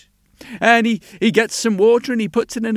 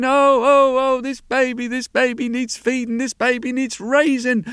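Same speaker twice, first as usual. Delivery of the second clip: lightly voiced sailor, pitched higher; a touch of higher-pitched worry; fretting sailor; 5 semitones higher, 3 dB louder than usual. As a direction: fret aloud over a helpless baby. Voices the worried sailor's thoughts.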